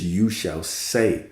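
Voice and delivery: "say" leaned on, slow and deliberate; stress on say. Shown as a demonstration. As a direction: slowly hit the word "say". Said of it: "emphasizing the word".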